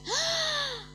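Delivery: amazed outburst. Retold or imitated. Girl realizing God really spoke, amazed outburst. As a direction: gasp then shout out the wonder.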